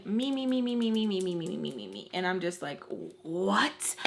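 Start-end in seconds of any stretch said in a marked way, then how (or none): 0.0-2.1 me me me, fading to nothing; mocking whiny me me. Mocking the boyfriend's self-pity, whiny and fading. 3.2-3.9 breathless stunned what; whispered what. Retold or imitated. Stunned reply to the boyfriend, whispered.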